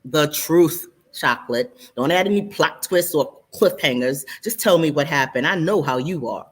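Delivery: Ramel voice. Acted. Male friend Ramel voiced.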